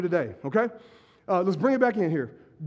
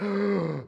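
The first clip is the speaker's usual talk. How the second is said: mock shocked gasp; 2 semitones lower, 5 dB quieter than usual. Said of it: "people are like".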